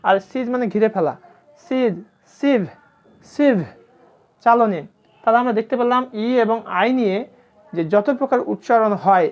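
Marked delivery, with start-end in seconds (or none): 1.7-3.6 সিজ and সিভ with long ee. Shown as a demonstration. Teacher repeating example words for students, long ee in সিজ and সিভ. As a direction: separate each word, সিজ, সিভ, holding the ee. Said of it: "তখন দীর্ঘিকারের মতো উচ্চারণ হবে".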